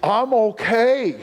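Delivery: slow, self-assured; breezy denial. Retold or imitated. Israel brushing off judgment, slow and breezy. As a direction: shrug it off. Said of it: "You say".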